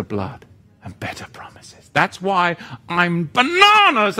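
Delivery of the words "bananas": tag. Real, not acted. Comic confession of zeal.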